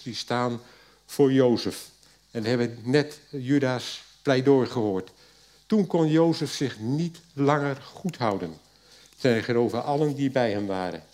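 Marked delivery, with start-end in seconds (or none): 5.6-11.0 steady reading voice for the Bible text; scripture reading. Acted. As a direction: read the passage out to the congregation. Reads Genesis passage aloud. (voorlezen uit de Bijbel)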